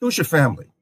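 lightly acted interrogation of a stranger's lineage; askance questioning. Farinata demands Dante's lineage, askance questioning. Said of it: "looks at him a little bit askance".

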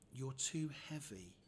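slow, whispered action-hero solemnity; hushed, drawn-out mock heroics. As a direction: whisper it gravely to a doomed casualty. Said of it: "that's my hero voice".

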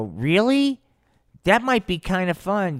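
high, loud eager surprise; intrigued. Acted. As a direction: perk up at a tempting offer. Rudolph tempted by alien's invitation.

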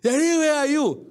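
lightly voiced small child calling for daddy; child's plea. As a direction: plead like a scared child at three AM. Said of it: "wake up, run to me".

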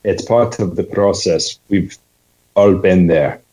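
learner's careful Scottish copy; Scottish accent. Shown as a demonstration. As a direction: echo the coach's Scottish. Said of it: "You're Scottish all the way through".

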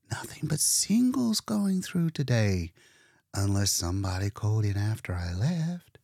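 put-on matter-of-fact young woman, hushed; Leora's voice. Leora talking shop.

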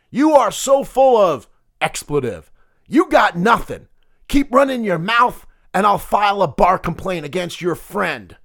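a hint of tough-guy menace, no gravel; jabbing at a rival, lightly mobster; mild mock mobster taunt. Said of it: "I was gonna try to do that in my gravelly mobster voice".

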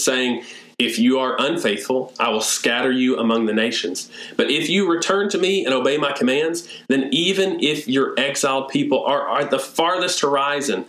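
prayer reading. Acted. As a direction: pray it aloud as Nehemiah before God. Reads Nehemiah's prayer aloud.

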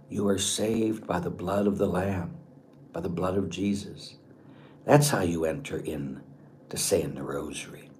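quiet reverence, unhurried; reflective meditation. Acted. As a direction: let the words settle quietly. Solemn close of the meditation.

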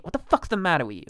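lightly voiced New York mobster; Gandolfini. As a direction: ask it like a TV mob boss. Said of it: "it more into Gandolfini".

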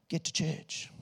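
hushed unvoiced "get to church"; whispered emphasis. The preacher stresses the verse's point, in a hush. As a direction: breathe it like a secret. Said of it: "pretty full-on reference".

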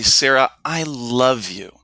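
slow, tender "Sarah, I love you"; mean every word, slowly; sincere and meant. Shown as a demonstration. Coach showing a heartfelt declaration of love, tender and slow. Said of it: "now my vocal tone is in line with the sentence".

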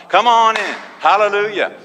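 high, loud preacher's call; big, ringing welcome shout; calling out invitation. Acted. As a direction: call the crowd in from afar. Calls all comers in.

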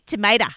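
"tomato" said to-may-da, ay in the middle; playful tomato. Pretend. Carrying on the rhyme joke, ay-vowel "tomato". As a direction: say "tomato" as tomayda. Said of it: "you say tomato, I say tomato".

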